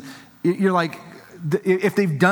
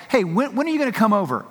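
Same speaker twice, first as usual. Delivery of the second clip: needy parent; 7 semitones higher than usual. Retold or imitated.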